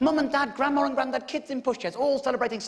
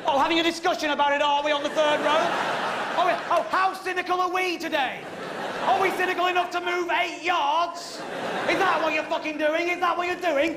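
higher, sneering mock questions with laughter; mocking sarcasm; 4 semitones higher than usual. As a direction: taunt the third row.

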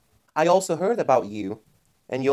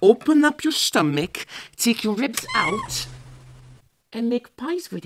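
louder menacing boss; mock threat; 7 semitones higher, 3 dB louder than usual. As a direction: bark the gruesome threat.

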